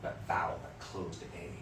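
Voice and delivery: mock yell at yourself in the practice room; hammed-up impatient shout at a stubborn note; frustrated self-push. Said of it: "I was like".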